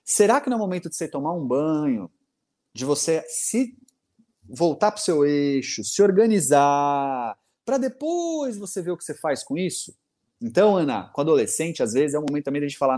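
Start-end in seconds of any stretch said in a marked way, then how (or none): 0.0-9.9 slow, soothing Zen nun; calm Monja Coen. Retold or imitated. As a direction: gently talk him down, slowly. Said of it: "vem a Monja Coen. Fala assim". (Monja Coen acalmando, devagar e serena)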